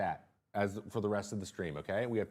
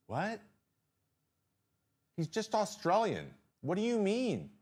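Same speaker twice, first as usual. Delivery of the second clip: higher, baffled disbelief; incredulous; 8 semitones higher than usual. Real, not acted. Streamer reacting to the radio host, incredulous and higher. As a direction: sound truly baffled by it.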